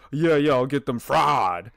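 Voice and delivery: put-on dad slowly faking a southern accent; imitating southern accent. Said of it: "Imitates the accent".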